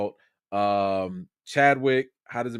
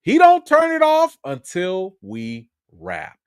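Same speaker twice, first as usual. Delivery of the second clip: higher, louder quoted reassurance; retold insistence; 7 semitones higher, 6 dB louder than usual. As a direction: insist emphatically, as if quoting the director. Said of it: "I was like".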